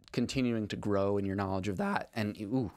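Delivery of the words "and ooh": voice crack. Real, not acted. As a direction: voice cracking mid-word. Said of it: "voice crack".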